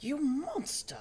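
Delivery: very high, cracking cry. Streamer voicing an accusation during a scene, voice cracking. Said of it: "That voice crack, good god".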